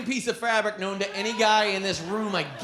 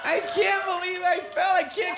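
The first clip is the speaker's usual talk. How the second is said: put-on drunk wife; 11 semitones higher than usual. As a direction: shout it giddy from the floor. Drunk wife fallen, acted.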